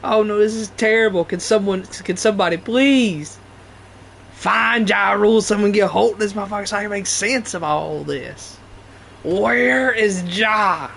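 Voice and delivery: mock desperation, drawing out the last cry; Dave Chappelle. Quoting a comedy bit about finding a rapper, mock-desperate. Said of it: "Dave is so funny".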